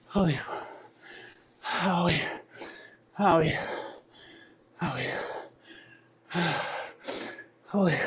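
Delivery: breathless, fading, near whisper; exhausted whisper. Real, not acted. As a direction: gasp it out spent. Collapsed after finish, gasping.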